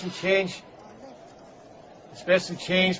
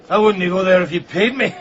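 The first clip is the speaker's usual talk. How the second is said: louder, laughing through it; laughing warning; 6 dB louder than usual. Acted. Beggar scoffing at living in the building, laughing louder. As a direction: laugh at the very idea.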